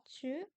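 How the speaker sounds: "chu" with the tongue kept forward; fronted Q sound. Shown as a demonstration. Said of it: "la langue devant".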